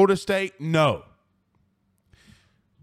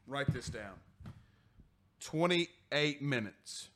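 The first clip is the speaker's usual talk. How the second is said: much softer and lower, slow and pointed; low, deliberate aside; 5 semitones lower, 12 dB quieter, slower than usual. Real, not acted. Host marking the time for his Monday clip, low and slow. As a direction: lean in and spell it out slowly.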